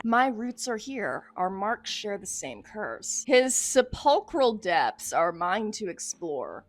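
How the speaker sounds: slow, weighty theatrical reading; portentous narration. Acted. Investigator declares the depths hers to explore, portentous. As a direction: intone it like a grave prophecy. Reads a journal aloud.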